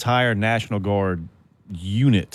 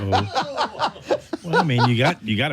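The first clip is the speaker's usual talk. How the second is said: talking through real laughter; laughing; 6 semitones higher than usual. Real, not acted. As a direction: laugh while answering. Reacting to bun joke.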